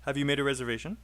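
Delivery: quick "Have you", weight on "made" and "reservation"; listen-and-say model, "Have" unstressed, rising "reservation". Shown as a demonstration. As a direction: model the question with "Have" kept light, rising at the end. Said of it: "have is not stressed".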